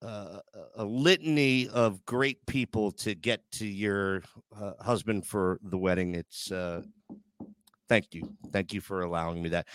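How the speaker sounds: low, tender and slowing; heartfelt thanks. Real, not acted. Host thanking Pam for the aisle walk, tender and sincere.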